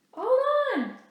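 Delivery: high loud drawn-out call; commanding call. Acted. Riel stopping the surveyors, loud high call. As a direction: call out to halt them.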